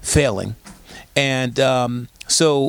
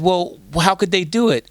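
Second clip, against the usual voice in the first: imitated skeptical caller, higher voice; caller with attitude; 5 semitones higher than usual. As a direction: challenge it in a raised sassy voice. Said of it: "she calls up with attitude".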